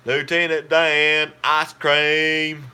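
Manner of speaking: slow, loud Forrest Gump drawl calling out; Forrest Gump impression. Forrest calling out to Lieutenant Dan, slow and loud. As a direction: stretch it out and holler like Forrest Gump. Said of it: "did y'all like my Forrest Gump imper-, impersonation?".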